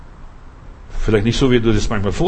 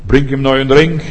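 excited orders; 3 semitones higher than usual. Acted. Father ordering feast, building.

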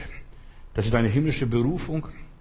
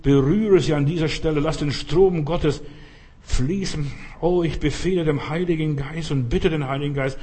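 earnest intercession, building in intensity; fervent healing prayer; 2 semitones higher than usual. Real, not acted. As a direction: pray with rising urgency over the sick. Prays aloud for the sick.

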